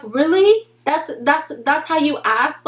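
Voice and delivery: can't believe he asked like that; disbelief. Retold or imitated. Disbelief at his approach.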